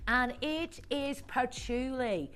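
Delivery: lightly faked Irish-style lilt, listing products; put-on accent voice. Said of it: "I'm just trying to do a voice there".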